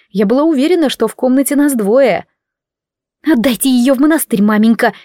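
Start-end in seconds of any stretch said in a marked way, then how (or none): 3.2-4.9 nasty squeak. Acted. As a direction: squeal it out spitefully. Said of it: "противно пропищала девица".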